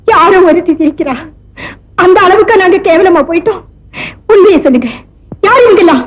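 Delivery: speaking through tears; hurt words choked with crying; tearful. Acted. Wife weeping as she confronts her husband.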